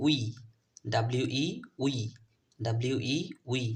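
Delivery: "উই" as a rounded glide into ee. Shown as a demonstration. Teacher drills learners, "উই" distinctly as wee after spelling. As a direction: spell it, then sound out "উই" as wee. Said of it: "ও এর মতো".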